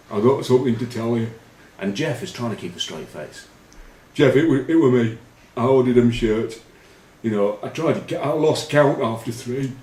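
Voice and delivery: high, loud pleading mimicry; panicked confession. Teammate pleading with captain, hammed-up panicky high voice. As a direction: beg like a frightened teammate caught out.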